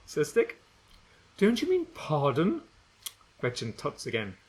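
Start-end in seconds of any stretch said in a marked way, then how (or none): 1.4-2.6 prim correction. Acted. Gretchen correcting manners.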